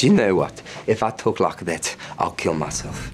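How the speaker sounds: mimicked South African accent; Dion Singer's South African accent. Friend objecting to being mimicked, imitated South African accent. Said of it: "You've nailed the accent".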